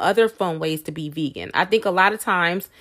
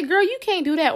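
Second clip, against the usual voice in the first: much higher, fast, animated; sassy mock naysayer; 9 semitones higher than usual. Vlogger mimicking a doubter to viewers, high and fast. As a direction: rattle it off with attitude.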